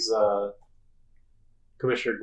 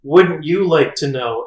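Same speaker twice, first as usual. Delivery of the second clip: Harley Quinn; 3 semitones higher, 8 dB louder, slower than usual. Retold or imitated. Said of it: "And Harley Quinn said".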